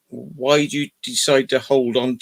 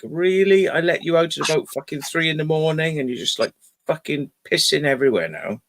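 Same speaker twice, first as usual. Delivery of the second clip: exasperated scolding; 3 semitones higher, 3 dB quieter than usual. Retold or imitated. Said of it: "And I was like".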